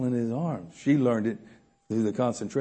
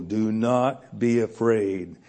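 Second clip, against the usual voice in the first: calm reassurance; 3 semitones lower, slower than usual. Retold or imitated. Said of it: "Moses said to the people".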